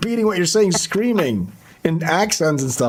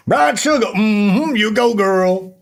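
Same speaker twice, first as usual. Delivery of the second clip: raised-pitch imitation of a Black woman's accent; mock Black woman's accent; 5 semitones higher, 4 dB louder, slower than usual. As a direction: parody a comic doing Black woman's accent. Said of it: "he does a black woman's accent".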